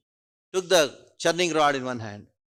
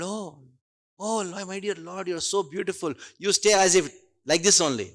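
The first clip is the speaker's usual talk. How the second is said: adoring admiration; 4 semitones higher than usual. Retold or imitated. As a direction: sigh it out like a devoted wife. Rukmini adoring Krishna.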